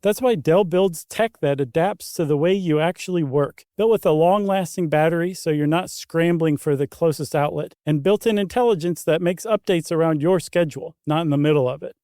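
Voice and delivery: smooth scripted sponsor read. Real, not acted. Co-host continues the Dell pitch to listeners, ad read. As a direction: carry the pitch along with steady emphasis.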